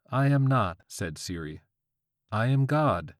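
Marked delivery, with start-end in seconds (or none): 0.1-0.8 robot voice. A narrator's reading. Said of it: "robotic female voice". 2.3-3.2 robot voice. A narrator's reading. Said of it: "robotic female voice".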